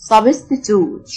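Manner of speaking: slow American "substitute", ending in toot; drawn-out American take on substitute, no y-glide; American pronunciation. Shown as a demonstration. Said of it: "النطق الأمريكان".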